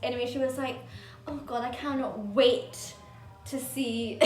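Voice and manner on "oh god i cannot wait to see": slow, drawn-out dramatic anticipation; hammed-up imitation of eager anticipation. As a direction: overdo the excitement, stretching out each word. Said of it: "That was so dramatic".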